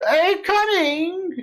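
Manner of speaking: put-on very high, elderly woman's calling voice. Voicing someone behind a door calling out: old woman's voice. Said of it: "It sounds feminine, uh, and old".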